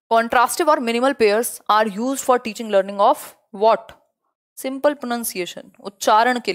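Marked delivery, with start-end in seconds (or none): 0.1-3.9 very slow reread of the quiz question; slow question reading. Shown as a demonstration. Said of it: "teacher rereads quiz question". 4.6-5.6 slow answer. Shown as a demonstration. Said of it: "teacher gives answer slowly".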